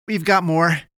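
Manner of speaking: high, loud warning; alarmed announcement. A narrator's reading. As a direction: call out the new danger. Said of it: "he announced".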